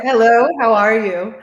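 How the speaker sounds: drawn-out Southern-sounding American accent; attempted American accent. Shown as a demonstration. Guest asked to demonstrate her American accent, drawn-out Southern-sounding attempt. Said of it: "like, so Southern".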